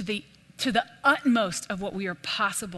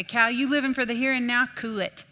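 lightly voiced grandpa telling off; easy scolding, affectionate; lightly voiced old man chiding; papa's voice; 4 semitones higher than usual. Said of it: "that's how he talked to me".

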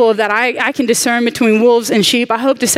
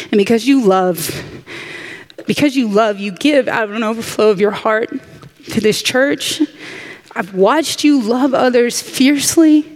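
getting emotional. Real, not acted. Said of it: "that's not why I'm gonna get emotional".

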